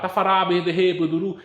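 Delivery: mock gibberish, hammed-up; a light mocking imitation of fake tongues; mock speaking in tongues. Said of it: "pra ficar". (imitando em tom de deboche quem fala em línguas)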